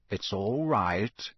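put-on slow, lightly gruff old auror; a hint of a grizzled old soldier; gruff Moody voice. A narrator's reading. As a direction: reassure the boy in a growl. Moody's voice in the story.

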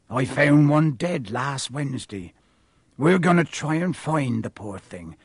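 lightly voiced rustic giant; grave groundskeeper. Groundskeeper showing pupils unicorn blood, grave. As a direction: explain gravely in a country accent.

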